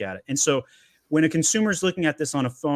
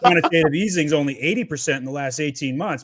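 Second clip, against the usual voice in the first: mocking the government; 3 semitones higher, 4 dB louder than usual. Host mocking the government's inflation numbers, sarcastic. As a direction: parody the official line with scorn. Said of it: "Government's like".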